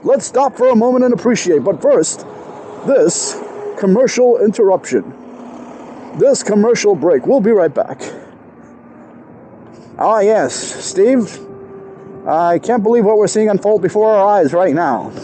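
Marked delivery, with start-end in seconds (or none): 1.6-8.0 broadcast break. Pretend. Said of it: "doing a parody". 10.0-15.1 parody commentator. Pretend. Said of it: "doing a parody".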